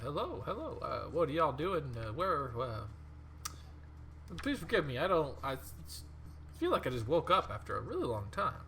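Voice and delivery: halting, stammering apology; groggy mummy. Acted. Game master voicing the newly woken mummy to the party, apologetic.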